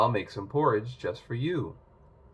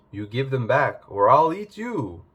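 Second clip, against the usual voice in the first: ogre threat; 6 dB louder than usual. Acted.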